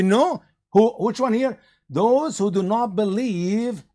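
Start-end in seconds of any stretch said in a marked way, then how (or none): none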